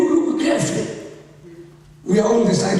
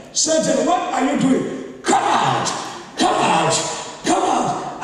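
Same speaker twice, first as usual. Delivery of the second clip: angry; 2 semitones higher than usual. Retold or imitated. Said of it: "angry in the spirit".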